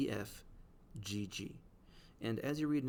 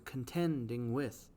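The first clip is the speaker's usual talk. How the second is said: "contending with" slowed, strong on "tend" and "with"; iambic stress; slower than usual. Shown as a demonstration. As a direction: beat out "contending with" slowly as two iambs. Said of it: "it interrupts the last third of that word".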